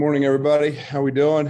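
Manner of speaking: breathing hard. Greeting everyone just after finishing a workout, breathing hard. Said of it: "Sorry, I'm breathing hard".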